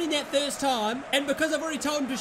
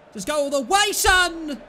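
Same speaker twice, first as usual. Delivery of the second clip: louder, rising into a shout on son; excited urging; 4 semitones higher, 6 dB louder than usual. Real, not acted. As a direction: egg him on all the way. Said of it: "I got a little bit excited".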